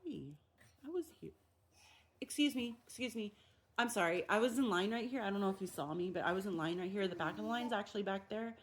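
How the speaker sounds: polite request. Pretend. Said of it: "stop and be like".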